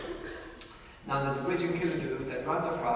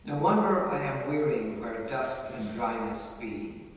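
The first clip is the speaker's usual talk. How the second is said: poem recitation. Acted. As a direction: recite it like a fond ballad. Recites a poem about Clare.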